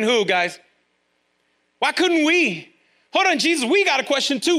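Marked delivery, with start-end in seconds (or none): 1.8-4.6 indignant question. Acted. Disciples' question voiced.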